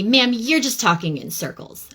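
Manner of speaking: mildly mocking a condescending phone agent; a touch of patronizing customer service; condescending retelling. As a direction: talk down to the caller, lightly imitated. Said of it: "she was being super condescending".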